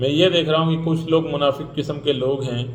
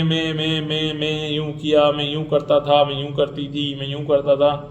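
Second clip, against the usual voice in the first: mock sing-song boasting. Mocking self-obsessed people who only say me, me, sing-song. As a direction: bleat out "میں، میں" like a self-obsessed show-off.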